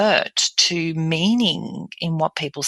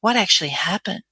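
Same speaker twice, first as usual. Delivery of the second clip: breathy; 3 semitones higher than usual. Shown as a demonstration. Dentist asking an upset patient, breathy. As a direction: question with more breath. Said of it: "I've got more breath".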